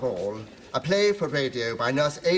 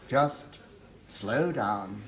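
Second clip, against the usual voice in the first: low, drawn out; 5 semitones lower, much slower than usual. Acted. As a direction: drop low on slow down. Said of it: "to slow down".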